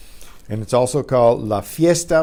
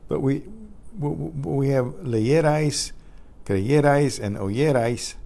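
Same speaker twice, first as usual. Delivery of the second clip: a lightly voiced puzzled student, pitched up; mildly raised, questioning student; 5 semitones higher than usual. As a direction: play the confused learner asking why. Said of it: "Now you might be asking yourself".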